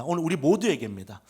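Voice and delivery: ordinary talk, nothing marked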